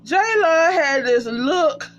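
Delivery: slow, high, breaking with laughter; laughing. Real, not acted. Vlogger still cracking up about Jaylon's look, slow high laugh. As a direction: squeeze it out through laughter.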